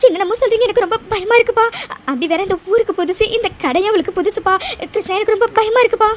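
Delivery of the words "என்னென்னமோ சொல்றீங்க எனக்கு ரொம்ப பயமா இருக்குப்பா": panicked. Acted. Frightened woman hears Abi is missing from Krishna, panicked. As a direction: cry out in panic, then plead. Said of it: "பதட்டப்படாதம்மா".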